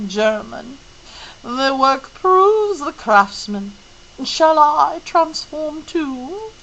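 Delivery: put-on a wise old woman teaching patience; slow and serious; solemn Mrs Who. Mrs Who voiced as figure.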